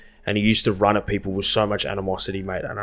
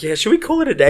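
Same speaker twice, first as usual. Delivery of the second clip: mock meek; 12 semitones higher, 5 dB louder, faster than usual. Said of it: "And I was like".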